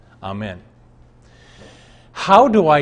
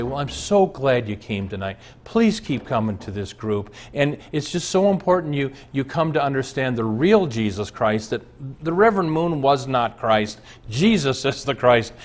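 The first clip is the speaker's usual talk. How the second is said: gentle. Retold or imitated. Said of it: "very gently to say".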